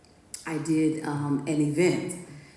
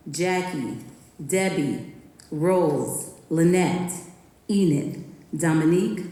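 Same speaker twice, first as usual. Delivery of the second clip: poem performance. Acted. Reading her poem about women athletes to listeners, performed. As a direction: perform it like a tribute on stage.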